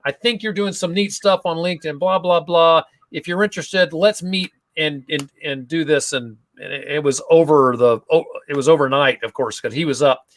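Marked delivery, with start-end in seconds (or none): 0.1-6.1 lightly imitated Australian accent; half-hearted Australian accent, friendly pitch to connect; a hint of an amateur Australian accent. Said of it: "Australian accent comes out and he goes".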